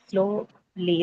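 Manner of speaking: "Slowly" drawn out as slow, then lee; syllable by syllable. Shown as a demonstration. Teacher testing for two syllables, "Slowly" drawn out in parts. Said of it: "you have slow and lee".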